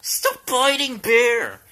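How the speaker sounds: loud firm reprimand; scolding. Real, not acted. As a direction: snap at the dog. Scolding dog.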